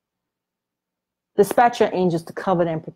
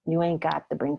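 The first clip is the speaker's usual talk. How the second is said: much softer, hushed warning; inner voice; 3 semitones lower, 8 dB quieter than usual. Retold or imitated. Pride warning him not to confess, hushed. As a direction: mutter it like a nagging conscience. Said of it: "my flesh and pride would say".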